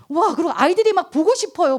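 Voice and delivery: thrilled longing; eager excitement. Real, not acted. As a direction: gush with joy.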